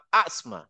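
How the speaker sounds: আসমা opening on a firm glottal আ, last vowel held; full hamza onset. Shown as a demonstration. Teacher gives an example, আসমা with full glottal আ. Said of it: "একদম পুরা".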